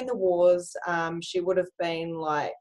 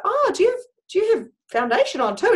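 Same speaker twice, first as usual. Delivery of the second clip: mock surprise; 11 semitones higher, 4 dB louder, faster than usual. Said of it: "I was like".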